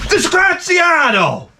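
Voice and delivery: slow, high shouted curse; furious curse. Acted. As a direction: spit it out in disgust. Italian curse at the AI.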